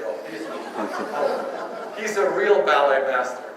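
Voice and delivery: slow, breathy-laughing mock awe; lightly mocking impressed audience, laughing; awed admirers. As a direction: gush through a laugh like a dazzled fan. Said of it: "they just go crazy".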